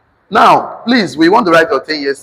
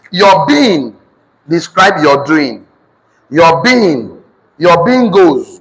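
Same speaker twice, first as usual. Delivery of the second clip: slow, deliberate dictation; dictation to class; slower than usual. Real, not acted. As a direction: spell it out slowly for note-takers.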